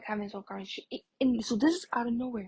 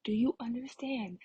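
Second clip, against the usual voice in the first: exasperated telling-off, only mildly raised; retold yelling; 2 semitones higher than usual. Girl retelling a row with a pushy boy, mildly raised exasperation. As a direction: press each question at him, fed up. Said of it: "yelling at this point".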